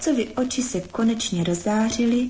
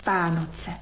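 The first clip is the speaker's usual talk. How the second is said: through gritted teeth; 2 semitones lower, 4 dB quieter, slower than usual. A narrator's reading. Frost resents their Christmas, slow gritted-teeth grumble. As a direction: squeeze the words out slowly through clenched teeth. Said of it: "procedil skrz zuby mráz".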